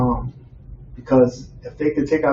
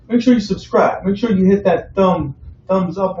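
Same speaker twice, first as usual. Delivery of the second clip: excited; 5 semitones higher than usual. Real, not acted. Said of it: "repeated subscribe plea".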